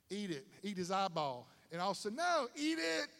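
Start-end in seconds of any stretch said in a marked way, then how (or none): 2.2-3.1 mock insistent mother. Parent urging child to eat.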